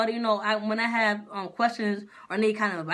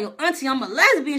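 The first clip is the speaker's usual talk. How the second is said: raised, louder clarification; insistent declaration; 4 semitones higher, 5 dB louder than usual. Retold or imitated. Niece spelling it out for auntie, insistent. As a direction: spell it out high and loud.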